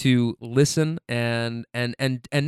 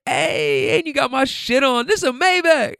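much higher put-on voice, hyped; impersonating the passenger; 12 semitones higher than usual. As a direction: play a hyped rapper-type passenger showing off the car. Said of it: "he gets in and he's just like".

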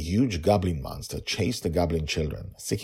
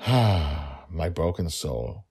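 emotional; 3 dB louder, much slower than usual. Real, not acted. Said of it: "I get emotional".

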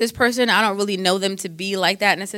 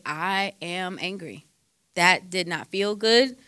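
slow, softer and composed; calm statement of anger; 4 dB quieter, slower than usual. Shown as a demonstration. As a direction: lay out I am angry slowly without heat. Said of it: "You can just say".

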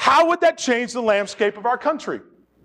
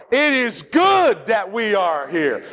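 slow, emphatic call for everyone to join; slow unison-leading delivery; led group recitation; slower than usual. Shown as a demonstration. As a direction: say it slowly for a congregation to follow. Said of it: "Now let's put it all together".

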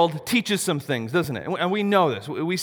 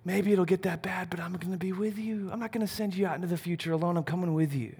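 gentle God voice; 7 dB quieter than usual. Acted. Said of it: "And God's going".

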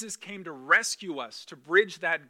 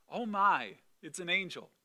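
put-on a light, softening "Oh my" in an old film heroine's voice; lightly voiced wide-eyed starlet, trailing off quiet; cute old-movie Mary; 5 dB quieter than usual. Preacher imitating Mary as a cute fifties film heroine, lightly voiced. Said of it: "Mary doing this little cute cinematic".

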